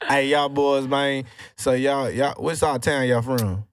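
light put-on Houston accent, casual and friendly; fake Houston accent. Asking the guests where they're from in a mock Houston accent. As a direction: keep the mild Houston accent going. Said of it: "that fake ass accent you trying to put on".

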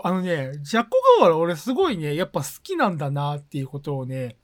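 talking while chewing cookies; mouth full. Real, not acted. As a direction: speak through a mouthful of snack. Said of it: "今それこそ本当に食べながら喋ってる".

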